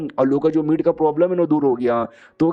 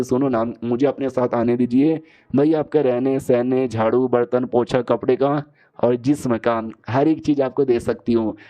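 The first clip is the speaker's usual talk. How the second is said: lightly acted sweet pleading, a bit low; understated lovey-dovey appeal; loving coaxing; 3 semitones lower than usual. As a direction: coax gently, with mock affection. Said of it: "बड़े प्यार से कहते".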